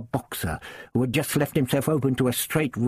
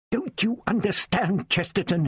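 gasped; 8 semitones higher than usual. A narrator's reading. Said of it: "he gasped".

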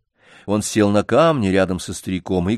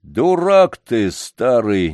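losing patience; 3 semitones higher, 5 dB louder, much slower than usual. Acted. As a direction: burst out at the old man. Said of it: "не вытерпел, наконец, дворник".

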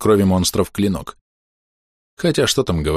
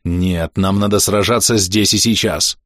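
through gritted teeth; slower than usual. Acted. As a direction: force it out through clenched jaw. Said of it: "проговорил сквозь стиснутые зубы".

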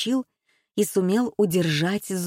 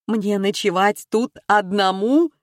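slow fearful question; scared young man asking; frightened; 2 semitones higher, 4 dB louder than usual. Acted. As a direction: dread of being left alone. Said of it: "испугался Павел".

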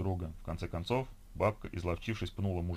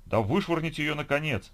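raised, higher-pitched angry demand; loud, exasperated heckle; indignant man joining in; 7 semitones higher, 5 dB louder than usual. A narrator's reading. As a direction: egg on the crowd to throw someone out. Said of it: "подключился мужчина".

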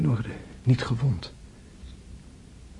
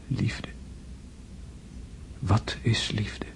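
slow whisper; 7 dB quieter, slower than usual. Acted. Dying André musing, whispered.

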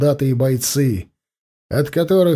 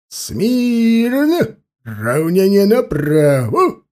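higher, barked parade command; shouting drill sergeant; 6 semitones higher, much slower than usual. A narrator's reading. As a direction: snap the order at the troops. Officer giving parade commands.

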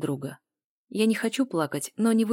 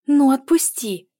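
hissed demand; 8 semitones higher, 10 dB louder, slower than usual. A narrator's reading. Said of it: "зашипела я".

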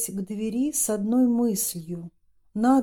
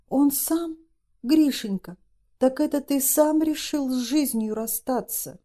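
higher, pleading disbelief; horrified mother; 5 semitones higher than usual. Acted. Mother to son, higher in horrified disbelief. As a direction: beg him to deny it. Mother learns of suicide attempt.

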